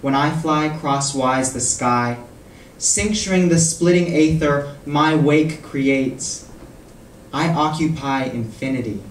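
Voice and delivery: measured poem recital with long pauses; poetry reading. Acted. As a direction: recite in deliberate phrases, letting each line fall. Reads own poem aloud.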